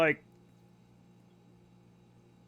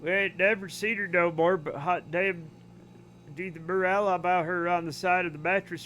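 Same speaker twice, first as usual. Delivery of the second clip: put-on Southern accent. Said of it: "I can do the accent really well".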